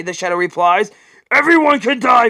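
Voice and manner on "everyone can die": forceful retort. Acted. Batman retorts.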